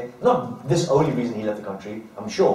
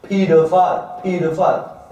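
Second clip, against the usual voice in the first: slow, drawn-out chanted yell; mock crowd chant, higher and louder; crowd shout; 5 semitones higher, 5 dB louder, slower than usual. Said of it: "their top voice".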